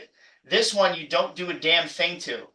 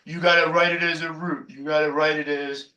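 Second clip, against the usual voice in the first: lightly voiced stern teacher scolding students; a hint of a fussy colleague laying down the rule; mock strict colleague. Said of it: "I'm even making the voice".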